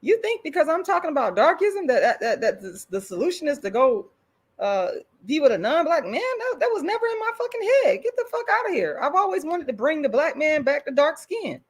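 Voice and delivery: high-pitched, incredulous outburst building up; exasperated retort. Retold or imitated. Telling off people who misread her, incredulous and high. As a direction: scoff at the idea, getting shriller. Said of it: "I'm, I'm like".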